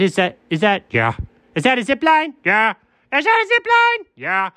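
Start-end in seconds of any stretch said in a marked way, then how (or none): 3.1-4.1 excited squeal. Acted. Spots zip line, thrilled.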